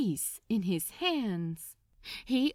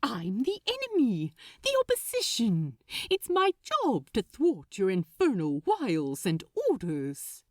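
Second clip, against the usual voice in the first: louder, eager rush; quick and excited; 3 dB louder than usual. Acted. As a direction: hurry on with an eager plan. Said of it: "went on quickly".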